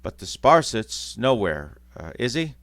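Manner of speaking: loud, rough cockney gossip; lightly voiced cockney charwoman. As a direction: gloat in a cockney accent. Cockney thief women talking.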